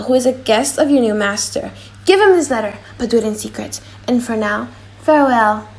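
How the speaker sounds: put-on young woman's voice, sorrowful; young Jessica voice. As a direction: play the daughter, sorry to see him go.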